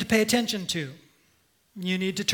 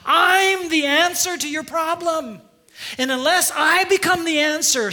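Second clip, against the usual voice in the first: higher and louder, firm divine command; God's voice; 5 semitones higher, 3 dB louder than usual. Acted. God tells the self-helper to stop, firm and raised. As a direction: speak as God halting the striver. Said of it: "And God says".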